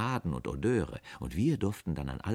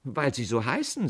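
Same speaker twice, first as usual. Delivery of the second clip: a touch timid, pitched up; intimidated; 6 semitones higher, 3 dB louder than usual. A narrator's reading. Apprentice answering the stern aunt, mildly intimidated. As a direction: answer meekly in a higher voice. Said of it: "sagte der Lehrling verschüchtert".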